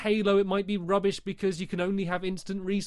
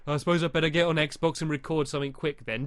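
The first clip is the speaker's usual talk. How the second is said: grumpy and tired; 4 semitones lower than usual. Retold or imitated. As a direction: sound like you just woke up. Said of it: "you're a bit grumpy and you can't be bothered".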